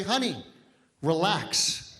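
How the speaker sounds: low, calm soothing to wife. Retold or imitated. Husband calming his wife, low and soothing. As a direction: ease her down gently. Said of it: "simply say".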